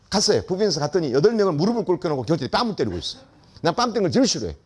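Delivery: ordinary talk, nothing marked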